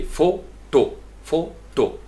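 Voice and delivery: फोटो split slowly as "foh... toh"; deliberate demo of फोटो, syllable by syllable; two long syllables. Shown as a demonstration. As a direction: sound out फोटो with both o's long. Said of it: "बिल्कुल लोगो वाली ये कैफियत होगी".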